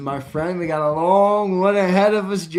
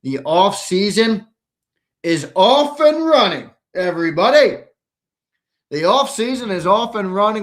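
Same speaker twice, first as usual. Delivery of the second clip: hyped radio host; 3 semitones higher, 7 dB louder than usual. Real, not acted. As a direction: sell the off season with energy.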